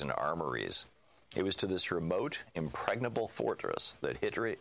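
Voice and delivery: measured audiobook reading; book narration. A narrator's reading. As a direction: read the prologue like a narrator. Reads book prologue aloud.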